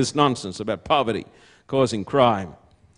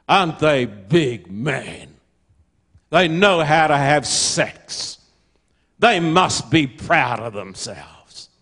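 sarcastic; 2 semitones lower, slower than usual. Acted. Mocking boastful absent fathers.

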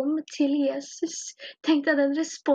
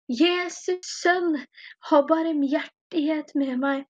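drawn-out imitated cry, only mildly raised; retold louder call. Blind beggar calls Jesus a second time, drawn-out retold cry. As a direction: stretch the name slowly as a restrained call. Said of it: "enda høyere, og han roper".

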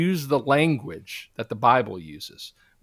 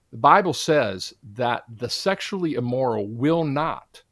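"not" leaned on firmly at the end; stress on not. Real, not acted. Preacher to listeners, hitting "not" with firm stress. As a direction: press down hard on the word "not". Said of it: "and I stress the word not".

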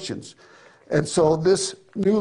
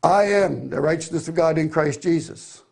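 smug arrived tone. Retold or imitated. Preacher imitating believers who think they've arrived, self-satisfied. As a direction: stress on "I" in "I am the righteousness", said like it's all settled. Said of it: "they say it like they have arrived".

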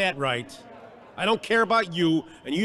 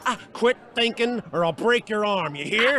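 higher, menacing warning; angry threat; 4 semitones higher than usual. Acted. Convict hurting a young inmate, angrily threatening. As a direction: threaten him as you grab his arm.

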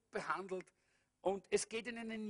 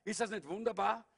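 normal talking voice

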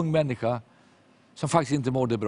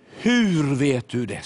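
slow and louder, astonished; girl amazed he knew; stunned question; 2 semitones higher, 4 dB louder, much slower than usual. Retold or imitated. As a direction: ask it slowly, thunderstruck.

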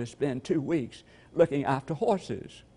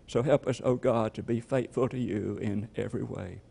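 closing prayer; 3 semitones lower than usual. Acted.

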